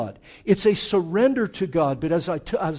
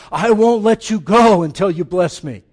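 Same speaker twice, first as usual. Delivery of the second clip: determined plea; 9 dB louder than usual. Retold or imitated. Jacob clinging to God, pleading.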